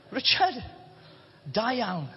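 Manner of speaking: a light Welsh lilt on Richard, da iawn; Welsh accent. Pretend. God greeting the preacher in heaven, lightly Welsh accent. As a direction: greet him warmly in a hint of Welsh accent. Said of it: "of course with a Welsh accent".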